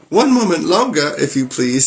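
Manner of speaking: frightened wife begging Bluebeard for time; pleading wife. Acted. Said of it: "Oh, whoops".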